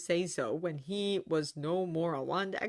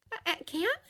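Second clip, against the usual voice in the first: stammering; 13 semitones higher than usual. A narrator's reading. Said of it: "Julia stammered".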